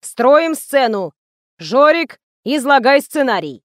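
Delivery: loud, slow director orders; commanding. Acted. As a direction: command the set. (громкий приказ)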